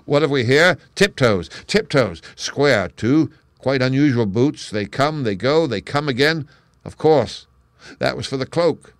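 a detective thrilled by the clues, thinking aloud; eager sleuth talking to himself over footprints; excited muttering. Acted. Holmes muttering over the tracks.

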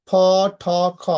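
"ফ, ঠ, খ" each with a puff of air; breathy release on each of "ফ, ঠ, খ"; aspirated consonants. Shown as a demonstration. Teacher demonstrating the three sounds, aspirated consonants. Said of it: "অ্যাসপ্রাইডেড sound বলা হয়".

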